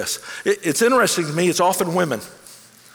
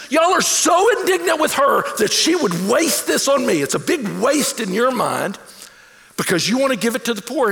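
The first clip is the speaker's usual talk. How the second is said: rebuking shout; 6 semitones higher than usual. Retold or imitated. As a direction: call them out for their indignation. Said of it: "he says".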